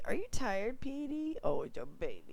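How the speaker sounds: soft, hushed pet talk. Real, not acted. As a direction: coo softly to a dog. Talking to the dog.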